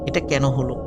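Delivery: ordinary delivery, nothing marked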